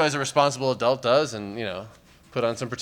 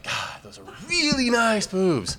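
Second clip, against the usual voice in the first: slow, higher, laughing admiration; slow admiring gush; 8 semitones higher, slower than usual. Retold or imitated. Comic quoting his dawn admiration, slow, higher and laughing. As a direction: savour the words like a dazzled guy. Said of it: "I'm like".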